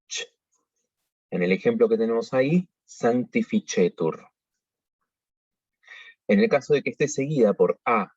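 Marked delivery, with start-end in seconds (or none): 0.1-0.3 ch dicho como la ch española; sonido ch. Shown as a demonstration. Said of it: "la pronunciamos". 2.8-4.3 sanctificetur con la c dicha ch; c como ch. Shown as a demonstration. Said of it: "la C, cuando está seguida de E o de I".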